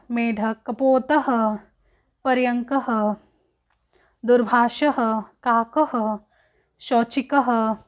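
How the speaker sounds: measured recitation of Sanskrit nouns; reading a word drill. Shown as a demonstration. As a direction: model each word for pupils. Picture words recited.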